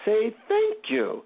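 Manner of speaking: measured mock Indian accent. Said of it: "in his, you know, deep Indian accent".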